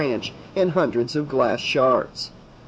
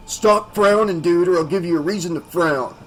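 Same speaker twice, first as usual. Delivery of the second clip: harsh croak; 3 semitones higher than usual. A narrator's reading. Bully threatening Keith in a harsh croak. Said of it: "croaked a harsh voice".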